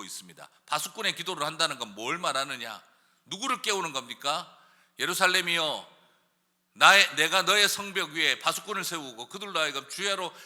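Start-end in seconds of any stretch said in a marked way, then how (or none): 5.0-10.3 raised, declaiming Bible verse; scripture reading. Acted. Preacher reading verse to the congregation, raised declaiming.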